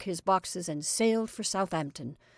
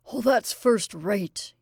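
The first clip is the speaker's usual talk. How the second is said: slow, drawn-out gleeful exclaim, a bit louder; gleeful cry; 4 dB louder, much slower than usual. Acted. Jimmy crowing to Mary over her news, gleeful. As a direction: savour every word with glee. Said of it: "he cried".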